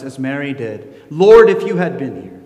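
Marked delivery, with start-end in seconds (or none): 1.1-2.4 much higher, louder pleading lament; anguished prayer. Acted. A sufferer cries out to God over unanswered prayer. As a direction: cry out to God like the hurt has just happened. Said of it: "felt the sting of unanswered prayer".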